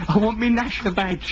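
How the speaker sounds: impatient child demanding a badge; whiny child. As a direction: play a kid wanting his badge.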